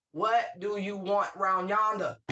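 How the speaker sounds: dragged-out, suspicious challenge; slow confrontational drawl. Retold or imitated. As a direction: stare them down as you ask. Confronting someone who approaches.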